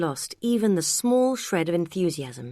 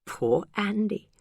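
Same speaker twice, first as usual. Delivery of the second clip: mock sympathy snicker; 4 semitones higher, slower than usual. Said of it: "Sarah snickered".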